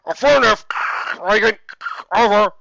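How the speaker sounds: radio voice. Acted. Radio reply.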